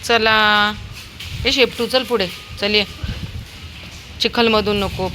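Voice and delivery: loud high call to the dog. Real, not acted. Owner calling her dog out of the mud, high and loud.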